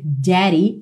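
"daddy" with R-like tapped D; American pronunciation. Shown as a demonstration. Teacher showing typical American sound, "daddy" with a tap. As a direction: say "daddy" as "dary". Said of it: "no inglês americano, tipicamente você vai ouvir".

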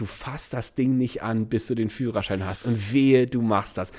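a quiet stern threat from dad; stern father. Retold or imitated. Father forbidding the scooter, low quiet stern warning. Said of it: "der hat immer gesagt".

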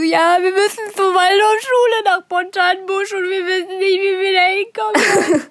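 high, whiny, tearful child voice, half-mocking; imitating a crying kid. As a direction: play your desperate younger self, lost and teary. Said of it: "beide geheult". (hohe, weinerliche Kinderstimme, leicht übertrieben)

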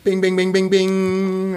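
high, bright slot-machine bings; jackpot chime. Pretend. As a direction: ring it out like a winning machine. Announcing a correct quiz answer.

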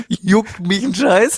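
slow, loud, high dismissive drawl; defiant. Retold or imitated. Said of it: "Und ich sag euch".

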